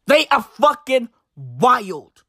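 slow, stretched "fucking wild"; drawn-out emphasis. Real, not acted. Vlogger repeating his verdict on the newspaper, drawn-out emphasis. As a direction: linger heavily on "wild".

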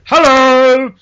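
very loud, high, drawn-out greeting; booming hello. Retold or imitated. Policeman greeting a passer-by in headphones, startlingly loud. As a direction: imitate a policeman bellowing hello out of nowhere.

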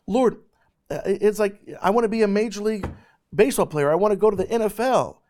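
high, loud, fervent preaching; preaching at full force. Acted. Preacher telling youth about his calling, preaching fervently. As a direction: preach it out to the crowd with full passion.

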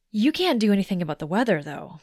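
brisk know-it-all objection; imagined objection. Retold or imitated. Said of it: "you might tell me".

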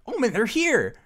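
loud, high urgent warning; urgent call. Acted. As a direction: hiss out an urgent alert.

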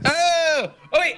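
high excited gasp of an idea; sudden realization. Real, not acted.

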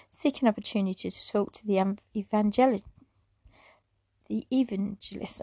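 rushed stumbling read, words tangle; tripping over words. Real, not acted. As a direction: hurry and trip over the phrase. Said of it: "I'm tripping over my words again".

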